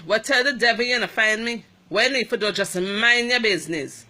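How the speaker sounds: loud, fast, defiant comeback; imitating the nurse's sharp retort. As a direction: snap back at the patient. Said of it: "she say".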